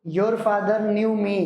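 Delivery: Your father knew me spoken very slowly; teacher reading the sentence aloud slowly to copy; slow dictation. Shown as a demonstration. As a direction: read it out slowly so they can copy. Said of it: "देख लो board पर".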